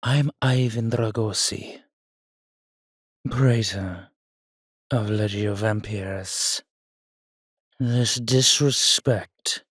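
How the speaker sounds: loud, commanding proclamation; imperious anger. Acted. Vampire praetor to disrespectful human hunters, imperious anger. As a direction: declare your rank with outraged authority. Affronted vampire declares his rank.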